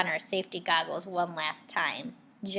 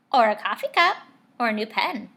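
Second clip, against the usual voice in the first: eager suggestion; 2 semitones higher, 10 dB louder, faster than usual. Acted. Child suggesting presents eagerly.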